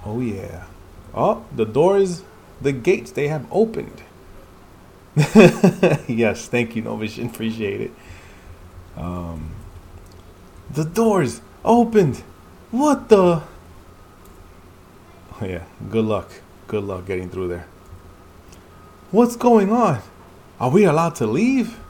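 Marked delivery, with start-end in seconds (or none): 1.1-4.0 higher and slow, awestruck; awed character. Acted. Reading a dramatic character line. 10.7-12.2 higher, louder, slow and amazed; awed character. Acted. Reading a character's reveal. 12.7-13.4 high, loud startled cry; shocked character. Acted. 19.1-21.8 much higher and louder alarm; panicked character. Acted.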